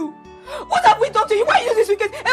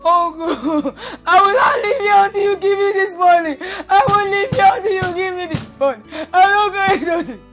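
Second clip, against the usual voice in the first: defiant crying shout; 4 dB louder than usual. Acted. Refusing to leave until paid.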